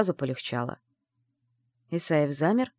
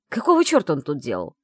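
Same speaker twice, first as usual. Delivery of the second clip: yelling; 3 semitones lower, 4 dB louder than usual. Acted. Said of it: "Зачем ты на меня орёшь".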